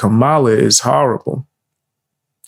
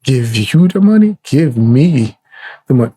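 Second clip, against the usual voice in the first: quoting a meme. Retold or imitated. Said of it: "same way that the".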